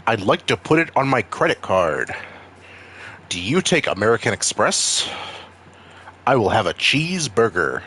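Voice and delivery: exaggerated white American accent, swooping tune. Shown as a demonstration. Customer paying and ordering, mock white accent. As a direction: put on a caricatured white accent. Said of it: "Like the white accent?".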